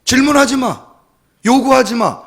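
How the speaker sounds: loud, high acted reprimand; scolding teacher. Teacher without answers silencing pupils, scolding loudly. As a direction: shut the pupils up with sharp orders. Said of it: "선생님도 우리 문제를 해결해 주지 못하는".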